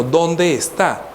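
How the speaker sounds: drawn-out dónde, slow and searching; ¿Dónde está? with dónde held long, asked slowly; slow searching question. Retold or imitated. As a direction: stretch dónde out as if looking around.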